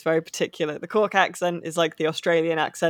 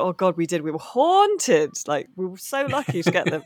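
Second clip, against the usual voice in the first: Cork sing-song. Retold or imitated. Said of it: "And someone will go".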